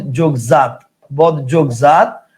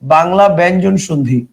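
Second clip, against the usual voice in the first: slow, word-by-word for writing down; slow dictation. Shown as a demonstration. Teacher dictating a heading to students, slow and clear. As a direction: dictate it slowly so students can write. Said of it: "লিখেন".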